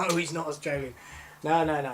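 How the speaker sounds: laugh, then correct them; a chuckled correction; amused denial. Acted. Roommate corrects claim about the man's origin, amused denial.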